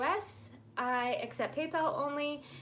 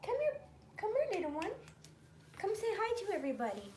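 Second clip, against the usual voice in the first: much higher sweet coaxing call; 7 semitones higher, 4 dB quieter, faster than usual. Real, not acted. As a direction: lure the little dog over, high and sing-song. Coaxing the little dog over.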